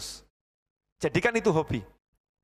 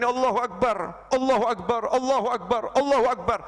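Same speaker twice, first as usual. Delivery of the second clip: mindful takbir. Shown as a demonstration. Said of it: "Sambil mengingat alam".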